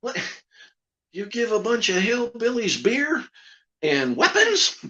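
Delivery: redneck boxer puppet. Retold or imitated. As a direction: play the loud country boxer puppet. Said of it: "I do it with George, who's a redneck boxer".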